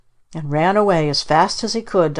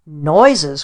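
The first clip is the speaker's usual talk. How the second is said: a louder, scornful hoot of a word; 5 dB louder than usual. Acted. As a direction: hoot it, mocking the idea. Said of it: "He cried it with a sort of a hoot".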